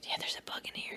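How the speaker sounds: hushed whisper. Noticing a bug flying around the room during a conversation; whispering. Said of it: "I don't know why I'm whispering".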